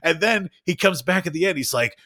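normal talking voice

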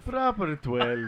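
slow mock Irish accent; rough attempt at Irish; Irish impression. Shown as a demonstration. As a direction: draw it out in an amateur Irish brogue. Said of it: "my best Irish impression".

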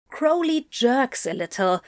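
usual speaking voice

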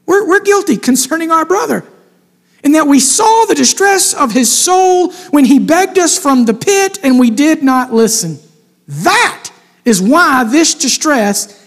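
lightly voiced brothers, anguished; guilty brothers. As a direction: voice the brothers admitting their sin. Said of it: "They're talking to themselves, these brothers".

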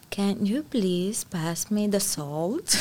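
slow, soft, overly proper phrasing; mock formal, slowed right down; stiff textbook request. Mocking stiff textbook Spanish to her boyfriend, slow and proper. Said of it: "you have to be like".

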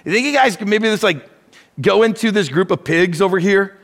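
fast, hesitant mock asking of demons; mock timid suggestion. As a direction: play a sheepish, apologetic request. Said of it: "Jesus did not suggest to the demons".

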